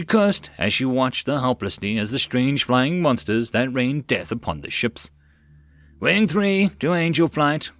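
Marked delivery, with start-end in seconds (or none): 6.0-7.7 excited call. Acted. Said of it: "called out excitedly".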